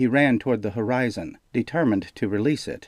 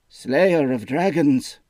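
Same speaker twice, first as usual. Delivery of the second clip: slow, louder, high ceremonial call; Meru's proclaiming voice; 5 semitones higher, 4 dB louder, slower than usual. A narrator's reading. Lightly voiced Meru proclaiming the general's titles, slow. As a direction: intone it like a herald. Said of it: "said Meru".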